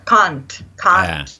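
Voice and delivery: "can't" with a broad open a, like "cahnt"; Australian can't. Shown as a demonstration. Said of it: "é can't". ("can't" com o A aberto australiano)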